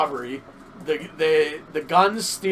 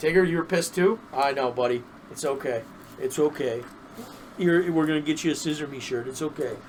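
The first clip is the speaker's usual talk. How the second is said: soothing the pet. Real, not acted. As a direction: tell the little one it's okay. Talking to pet Tigger.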